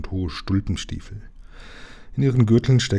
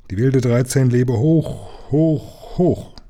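rising, much higher cheers of hoch; rousing cheer; 4 semitones higher, much slower than usual. Acted. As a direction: whip up the crew. Captain leads cheers. (begeisterter Hochruf)

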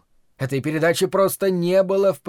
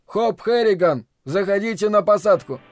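control tower radio; 5 semitones higher, 3 dB louder than usual. Acted. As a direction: answer the pilot from the tower. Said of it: "Пауза, затем".

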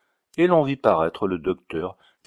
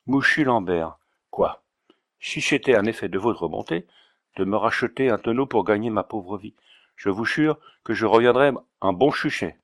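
put-on Auvergnat accent. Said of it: "avec son aimable accent".

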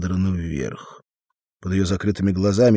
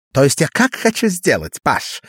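high, louder thin tenor; 7 semitones higher, 5 dB louder than usual. A narrator's reading. Sam explaining his plan to Arnold, in a thin tenor. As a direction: push the line up into a thin little tenor. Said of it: "тонким тенорком говорил Арнольду Сэм".

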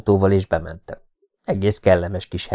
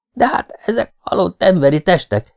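horrified protest; 5 semitones higher than usual. Acted. Horrified objection.

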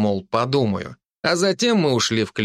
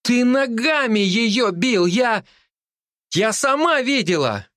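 put-on accusing girl; 11 semitones higher, slower than usual. A narrator's reading. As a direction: call the man a liar.

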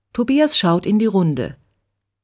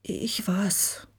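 geflüstert, kaum hörbar; beschämt hauchen, kaum zu verstehen; ganz leise; 2 semitones higher, 10 dB quieter than usual. A narrator's reading. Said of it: "sagt Tobias so leise". (Tobias gesteht geflüstert, kaum hörbar)

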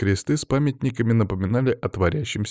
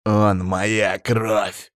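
very slow, strained angry growl; seething, drawn-out declaration; gritted teeth; much slower than usual. A narrator's reading. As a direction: grind each word out through clenched teeth. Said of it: "скрипнул зубами Павел".

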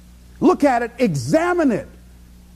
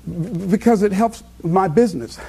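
stuttering friend. Retold or imitated. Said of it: "she stutters".

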